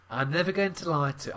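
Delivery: British voice. Retold or imitated. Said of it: "I'm doing it in a British voice".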